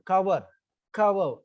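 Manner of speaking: "cover" with the first syllable stressed. Shown as a demonstration. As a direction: lean on the start of "cover". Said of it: "The stress is on ka".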